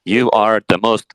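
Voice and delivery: stuck robot voice stuttering "rup"; a jammed machine repeating a syllable; glitching robot. Acted. The glitching chatbot, stuck and repeating in a robot voice.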